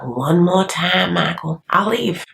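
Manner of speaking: slow, threatening ultimatum; stern warning. Retold or imitated. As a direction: draw it out like a final warning. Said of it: "she's like".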